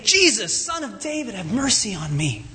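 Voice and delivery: a held-back shout that falls away at the end; restrained cry out. Acted. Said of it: "he began to shout out and say".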